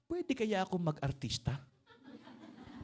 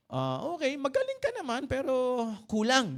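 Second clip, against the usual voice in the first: a hint of a judge delivering a verdict; lightly voiced judge; 7 semitones higher than usual. Judge voice in told story.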